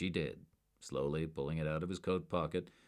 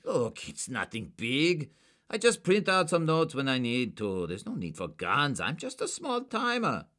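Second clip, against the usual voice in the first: nervous pleading; 9 semitones higher, 6 dB louder than usual. A narrator's reading. Suspect downplaying forgery to agents, nervous. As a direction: talk it down nervously.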